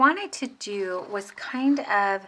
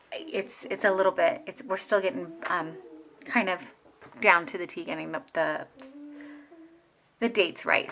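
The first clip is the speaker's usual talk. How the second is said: halting, stuttering restarts; stumbling over the words. Real, not acted. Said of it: "sorry for the stuttering".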